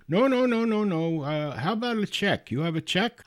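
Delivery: put-on high, urgent Indian-accented protest; mock Indian accent, pitched well up. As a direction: imitate a hasty caller with an Indian accent. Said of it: "he's got a very thick Indian accent".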